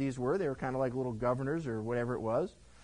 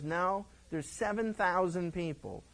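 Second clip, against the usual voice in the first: slow, steady reassuring voice; a hint of God's calm reply; calm correction. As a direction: gently set him straight. God answers Elijah.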